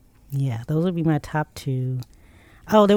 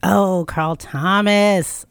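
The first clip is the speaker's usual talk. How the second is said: drawn-out, delighted "oh" of remembering; delighted recall; 2 semitones higher, much slower than usual. Real, not acted. Finally remembering a favorite singer for the list, delighted. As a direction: slowly savor the singer's name with delight.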